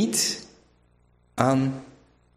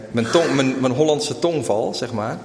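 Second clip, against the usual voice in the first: ordinary talk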